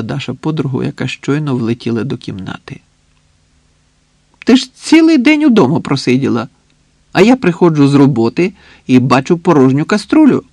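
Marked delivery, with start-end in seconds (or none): 4.4-10.4 playful, good-natured grumble, high and loud at the start; lively, loud mock complaint; cheerful chiding. A narrator's reading. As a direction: tease a friend cheerfully, without malice. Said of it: "весело, без зла сказала Світлана".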